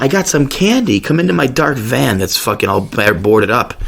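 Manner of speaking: high, sugary mock candy offer; hammed-up creep offering candy, pitched high; creepy van luring voice. Pharmacist luring him like a van creep, high mock sweet voice. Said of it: "like some pedophile in a van".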